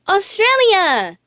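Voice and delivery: Riley shouts on seeing land, thrilled and high; excited shout. A narrator's reading. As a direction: call out the land you spotted. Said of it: "shouted Riley".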